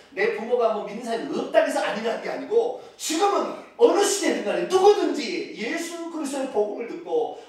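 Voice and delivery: ordinary delivery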